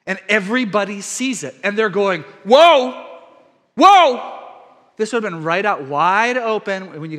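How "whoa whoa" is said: loud, amazed whoa; astonished crowd. Retold or imitated. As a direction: gasp it out like a stunned crowd. Crowd sees healed man.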